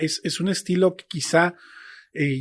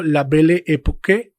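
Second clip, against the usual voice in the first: tentative French pronunciation of the title; halting amateur French accent; attempted French. Shown as a demonstration. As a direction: have a go at saying the title in French. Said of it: "a ver si me sale el francés".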